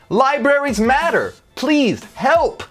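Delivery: calling out for help. Pretend. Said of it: "by calling out".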